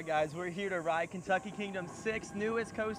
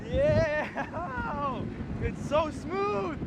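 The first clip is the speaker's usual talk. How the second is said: on a roller coaster; 6 semitones higher, much slower than usual. Real, not acted. Riding the coaster.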